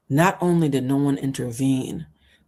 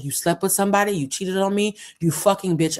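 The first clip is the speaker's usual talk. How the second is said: raised, higher accusing voice; jilted boyfriend lashing out, higher and angry; angry accusation; 6 semitones higher than usual. Retold or imitated. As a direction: hurl it at her like a jilted boyfriend. Boyfriend accuses her angrily.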